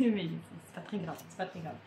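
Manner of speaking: soft, low, resigned shrug; quiet. Real, not acted. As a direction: drop it low and let it go. Shrugging off confetti pattern.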